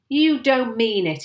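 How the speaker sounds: loud, drawn-out exclamation of disbelief; amazed, emphatic outburst; excited cry. A narrator's reading. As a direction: cry it out, stretching the words. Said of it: "he cried".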